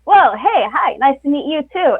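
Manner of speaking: light up at meeting someone new; delighted greeting. Retold or imitated. Crew member answering a confident PA: delighted hello. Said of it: "those are the people that are just like".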